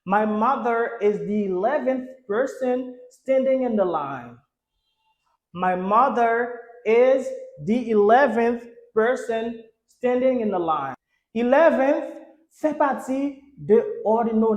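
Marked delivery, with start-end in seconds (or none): 0.1-4.4 slowed, carefully spaced English; slow model reading. Shown as a demonstration. Teacher giving the class an example sentence, slow model reading. 5.5-10.9 very slow, separated words; slow model reading. Shown as a demonstration. Teacher repeating the example sentence for learners, slow model reading.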